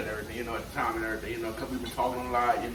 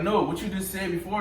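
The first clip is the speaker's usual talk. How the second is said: higher-pitched imitation of a baffled coworker; puzzled insistence; 6 semitones higher than usual. Coworker asking again about the greeting, puzzled. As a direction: press for the repeat, perplexed.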